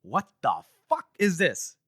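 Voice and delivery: slow, drawn-out outraged demand; mock yell. Retelling naked old man's entrance, slow mock yell. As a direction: imitate yelling, each word stretched out. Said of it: "And he yells out".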